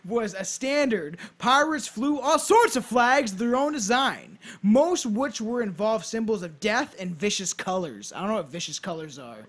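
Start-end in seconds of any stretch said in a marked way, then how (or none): 0.0-8.1 storyteller read with punched key words; measured, emphatic read-aloud; scripted narration. Acted. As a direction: present it like a podcast history script. Reads a scripted history.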